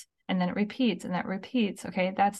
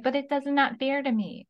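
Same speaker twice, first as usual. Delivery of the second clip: put-on high whiny child complaint; whiny kid voice; 5 semitones higher than usual. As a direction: whine it like a sulky kid. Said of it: "this whole, like".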